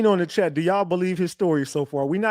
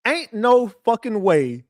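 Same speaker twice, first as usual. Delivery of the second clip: flat disbelief; 4 semitones higher, slower than usual. Real, not acted. Streamer refuses to believe story.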